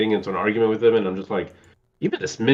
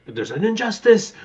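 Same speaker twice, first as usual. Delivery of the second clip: mimicking Gomez; 10 semitones higher than usual. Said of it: "like, he, like".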